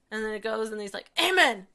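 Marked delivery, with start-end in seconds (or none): 1.2-1.7 put-on high, loud toddler amen; imitated gleeful child's cry; super enthusiastic. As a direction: shout it out like a little boy ending grace. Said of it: "super enthusiastic to pray".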